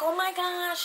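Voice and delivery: high-pitched mock crying gasp of shock; high, weepy retold reaction; tearful imitation. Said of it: "She starts crying".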